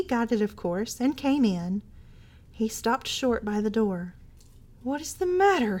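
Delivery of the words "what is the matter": startled, pitched higher; a husband bursting in, crying out in shock; alarmed cry. A narrator's reading. Husband finding his wife creeping, alarmed cry. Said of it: "he cried".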